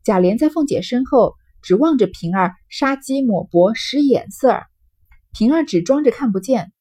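deliberate, measured novel reading; story narration. A narrator's reading. Reading the novel to listeners, storytelling narration. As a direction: read the classic aloud with lively dialogue.

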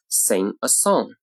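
very slow "Sing a song", "Sing" and "song" drawn out; lengthened sentence stress. Shown as a demonstration. Teacher demonstrating sentence stress, slowly, "Sing" and "song" lengthened. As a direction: stretch "Sing" and "song", keep "a" short. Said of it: "句子重音在哪里".

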